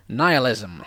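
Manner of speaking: a touch too much excitement; too excited. Real, not acted. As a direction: land the word with a little relish. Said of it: "I said that too excitedly".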